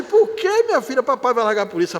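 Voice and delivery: put-on a surprised dad answering his girl; amused father. Father laughing as he answers his daughter, amused. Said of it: "Ele disse".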